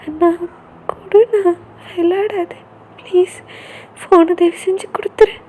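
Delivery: high, begging voice; pleading sister. Acted. Sister begging her brother for her phone, high and pleading. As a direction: plead with him to give it back.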